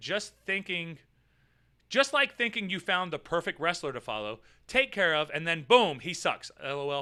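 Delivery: normal talking voice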